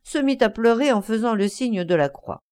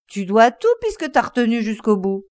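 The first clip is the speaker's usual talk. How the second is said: angry retort; 3 dB louder than usual. Acted. Fare quarrel.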